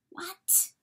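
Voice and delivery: sudden high-pitched question; startled question. A narrator's reading. Coyote interrupted by the weasel, startled. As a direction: answer sharply high, thrown off.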